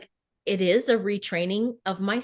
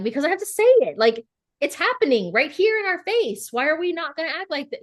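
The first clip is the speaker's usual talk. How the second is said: retold protest; 7 semitones higher, 4 dB louder than usual. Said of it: "And I'm like".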